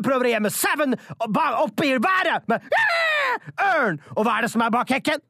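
hammed-up radio drama, shouted monsters and sound effects; overdreven hørespill. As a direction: act the wolf drama wildly, yelling the beasts. Performs a wolf radio drama. (overdrevet hørespill med rop og lydeffekter)

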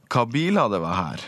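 "biler" lifted in pitch, falling away to "her"; dialect exclamation. Shown as a demonstration. Linguist quotes a northern dialect example, as an exclamation. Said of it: "uttrykk som".

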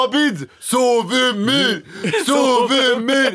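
high, drawn-out rallying cry; mock hype call. Mock warm-up act hyping the lecture, high drawn-out calls. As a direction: stretch each word out like a stage chant.

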